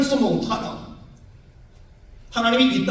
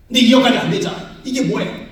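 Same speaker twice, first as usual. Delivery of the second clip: fast, louder indignant complaint; arguing with God; 4 semitones higher, 5 dB louder, faster than usual. Retold or imitated. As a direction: protest to God, fed up. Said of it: "하나님께 따졌어요". (하나님께 따지듯 빠르고 크게)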